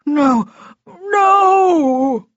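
high, loud wailing protest; desperate cries building to a long scream; Froggy. A narrator's reading. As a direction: wail as doom closes in. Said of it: "Froggy protested".

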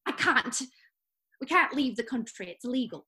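a put-on English accent, nagging wife; British accent. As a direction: play an annoyed English housewife with a light British accent. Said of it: "I like your accent".

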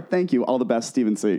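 prim, falsely polite sign-off; mock courteous letter ending; reading out the owner's smug sign-off with mock courtesy.

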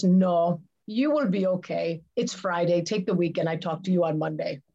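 badly imitated German accent, brisk delivery; lightly attempted German accent; horrible German accent. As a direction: put on a clumsy German boss accent. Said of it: "That is my horrible German accent".

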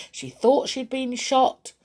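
ordinary delivery, nothing marked

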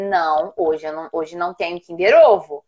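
low, calm no; mild parental refusal. Retold or imitated. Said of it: "eu falei pra ele".

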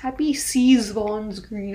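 Seasvon's said with a v sound in the middle; typo pronunciation. Pretend. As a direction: pronounce Seasvon's with a v before the on. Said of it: "joke at ... a typo".

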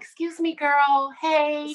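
high, sassy call for attention; inner voice. Retold or imitated. Her inside talking to her, sassy inner voice. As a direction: pitch it up, calling yourself out. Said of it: "my inside was like".

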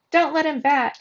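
loud, high demand from the crowd; heckler's shout. A narrator's reading. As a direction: shout it out against the batter. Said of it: "someone shouted".

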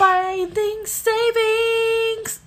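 slow loud dramatic announcer. Pretend. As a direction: read it like a spooky promo. Mimics ad announcer.

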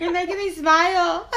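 laughing through words; giggling while talking. Real, not acted. Laughing at the song.

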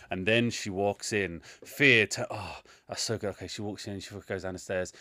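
low, soft muttering while scribbling; imitating an absorbed writer under the breath; mock distracted writer. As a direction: mumble a script to yourself, half-distracted. Acts distracted writer scribbling down script.

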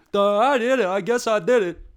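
loud, high dopey voice; dim-witted henchman. Acted. Ostrich goon owning up to the boss, dopey voice. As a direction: confess like a clueless goon. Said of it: "They're like one of those".

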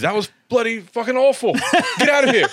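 high mock-indignant dismissal, laugh creeping in; acting out Spud. Spud rejecting the bad Moose impression, high mock outrage. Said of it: "And he goes".

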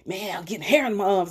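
imitating a boy's mild excitement; a touch of eager pride, retold; excited son. Mother quoting her son on new arm hair, mildly excited. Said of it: "he was very excited".

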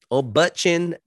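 high, mocking nickname; sing-song the jab up high. Shown as a demonstration. Mocking the actor to his viewers, pitched high.

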